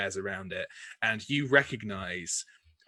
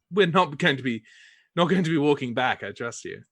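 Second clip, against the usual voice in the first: noble lady; 2 semitones higher than usual. Acted. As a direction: insist like a lady used to being obeyed. GM voices Chastity commanding the party.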